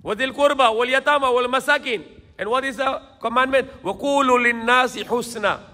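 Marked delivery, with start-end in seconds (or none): 0.0-2.1 Quran recitation. Acted. Preacher quotes a Quran verse. 3.8-5.6 Quran recitation. Acted. Preacher quotes a Quran verse.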